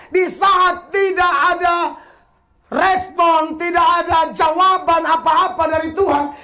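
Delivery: fervent preaching. Acted. Pastor urges the church to stand firm, fervent preaching. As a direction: preach it to the back row.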